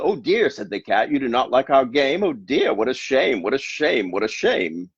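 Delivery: hammed-up pity from the cat; cat feigns regret the children dislike the game; mock-sad cat. Cat's mock lament.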